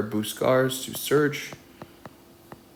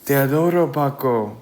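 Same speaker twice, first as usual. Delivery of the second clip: tender mother; 3 semitones higher, 6 dB louder than usual. A narrator's reading. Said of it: "le dice su mamá".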